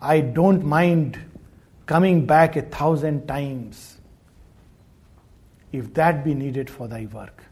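low, measured reading of devotional verse; poem recitation. Acted.

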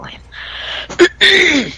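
slow exasperated whisper. Real, not acted. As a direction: whisper it, slowly, fed up. Ranting about pundit Juan.

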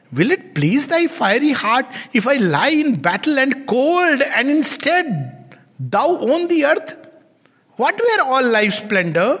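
a wounded son crying out; son pleading with his mother. Acted. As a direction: reproach a hard-hearted mother. Son's lament, slow.

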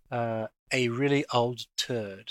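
slow, careful model phrase; slow teaching read. Shown as a demonstration. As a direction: give the phrase slowly for learners. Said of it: "a turd is another name".

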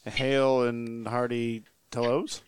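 hammed-up greeting. Greets the ogre theatrically.

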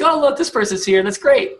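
mock excitement. Mock excited Slack welcome.

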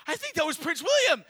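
high, loud outburst of a frantic passer-by; hurried excitement. Retold or imitated. Frantic runner alerting strangers to a royal sighting, excited shout. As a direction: blurt it out at top pitch, loudly. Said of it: "he's all in a hurry".

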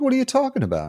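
high, indignant retort; mock indignant Jerry. Jerry answers his girlfriend's insult, mock indignant high voice. Jerry's outraged reply retold.

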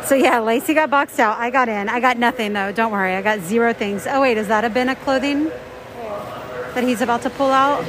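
muffled behind a face mask; muffled through mask. Real, not acted. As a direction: talk through a covering mask. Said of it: "here in the bins talking through a mask".

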